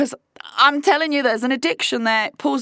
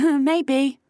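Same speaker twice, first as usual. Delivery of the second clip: mock little laugh into the words; imitating a dismissive laugh; 3 semitones higher than usual. Man brushing off her accusation, retold with a light laugh. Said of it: "he just laughed and went".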